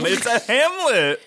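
high, slow, hammed-up exclamation; playful overstatement. Co-host joking about New York's size, playful overstatement. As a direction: draw it out high in mock wonder. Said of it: "trying to have fun".

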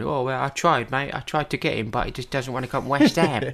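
rueful Cockney shrug in the voice; David Gold Cockney. Retold or imitated. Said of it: "that's my Cockney accent".

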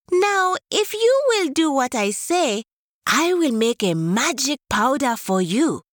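high, coaxing tortoise voice; high tortoise with a sly promise; sneaky tortoise. Acted. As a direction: sweet-talk the leopard in a high small voice. Tortoise flatters leopard.

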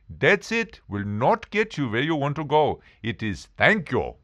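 put-on guru voice, patiently correcting; guru character. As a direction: play the guru insisting on the answer. Playing the Indian guru.

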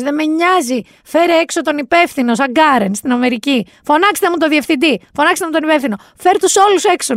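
mock yell. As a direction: act the entitled customer calling for the manager. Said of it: "άρχισε να φωνάζει ο κύριος".

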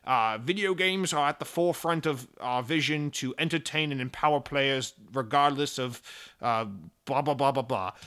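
lightly voiced corporate PR speak; mock a bland press statement; a hint of smug executive; corporate spiel. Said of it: "and being like".

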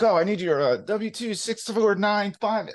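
a hint of an imitated wife; mimicking wife. Mimics wife rattling off tax requests.

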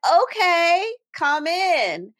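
high, hesitant mock agreement; confused. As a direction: act out a baffled, reluctant yes. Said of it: "you're still confused".

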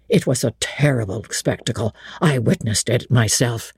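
a respectful butler recounting the disaster; old butler's voice. Acted.

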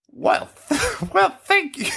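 very high, laughing witchy squeak; accidental witch voice. Pretend. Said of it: "It's like a witch voice".

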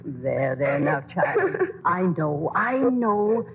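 tag. Acted. Grandma comforts crying child.

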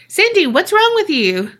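very high mock man's voice; high-pitched comic imitation. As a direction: ask it high and insistent. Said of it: "uh, high-pitched".

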